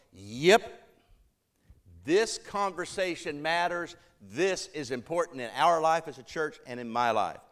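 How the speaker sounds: emphatic yep, then measured conviction; testifying. Acted. Church member bearing witness to what matters, testifying firmly. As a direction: bear witness with firm emphasis. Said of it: "testifying voice is to bear witness".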